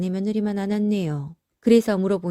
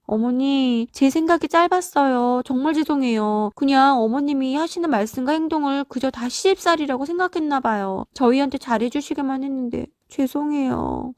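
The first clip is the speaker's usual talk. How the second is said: higher-pitched, pleading apology; contrite daughter-in-law; 6 semitones higher than usual. Acted. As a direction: beg a mother-in-law's pardon in a raised pitch. Daughter-in-law begs forgiveness. (높은 목소리로 시어머니께 뉘우치며 사과하는 며느리)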